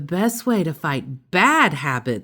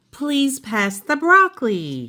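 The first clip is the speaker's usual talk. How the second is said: mock polite ask; 7 semitones higher than usual. Rude reach instead of polite ask.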